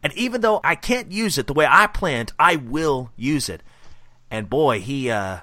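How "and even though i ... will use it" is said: villain monologue. Retold or imitated. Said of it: "He says".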